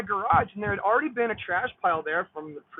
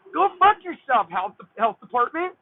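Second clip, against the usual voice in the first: angry cursing; 4 dB louder than usual. Real, not acted. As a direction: tell off the health department at full heat. Cursing the health department.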